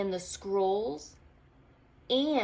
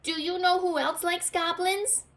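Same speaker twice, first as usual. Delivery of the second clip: voice from the cave; 10 semitones higher, 4 dB louder than usual. A narrator's reading. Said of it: "said the voice".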